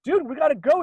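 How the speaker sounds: high urgent retold plea; panicked. Telling his friend they must flee, high and panicked. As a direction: pitch it up in a frantic rush.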